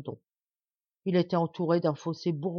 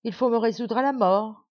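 sighing resignation; 5 semitones higher, 5 dB louder than usual. A narrator's reading. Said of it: "dit la reine en soupirant".

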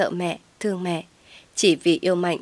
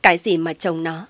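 ordinary delivery, nothing marked

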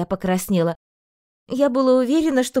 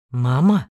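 breathed surprise; 6 semitones lower, 4 dB louder than usual. A narrator's reading. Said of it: "выдохнул Эйнар".

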